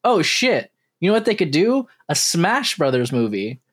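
mildly hammed-up eureka moment; reenacted realization. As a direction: relive a sudden bright idea. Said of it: "And I was like".

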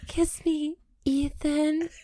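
mock pleading. Repeating the mocking plea.

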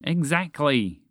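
drawn-out, slightly annoyed agreement; somewhat irritated. Acted. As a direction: stress it with mild irritation. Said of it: "somewhat irritated at Roger".

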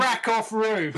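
reads the quote while cracking up; laughing quote. Retold or imitated. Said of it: "do you wanna read that last quote".

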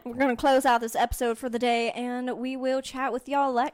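put-on Southern accent, amused; playful Southern sign-off; Southern twang. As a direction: hold a country twang while nearly cracking up. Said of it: "keep on the southern twang".

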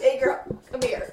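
imitating grandfather. Grandfather calling one of his granddaughters over, lightly imitated. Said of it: "What if it was my grandfather said".

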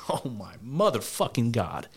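laughs off disbelief, slow; laughing outburst. Real, not acted. Laughing at Dyson's quote, a real slow outburst. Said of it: "sorry for the outburst".

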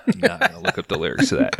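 high-pitched quick repeat. Shown as a demonstration. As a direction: fire it back up high and fast. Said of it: "Okay, I'm not gonna look up".

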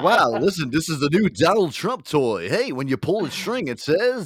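high, loud hyped-up ad pitch; toy commercial voice. Pretend. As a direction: sell the toy like a TV ad. Hypes a new Trump toy.

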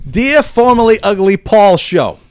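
slow, emphatic email reading; letter read-out. Acted. Host reading a hostile listener email to co-hosts, slow and emphatic. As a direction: read the angry letter slowly and deliberately.

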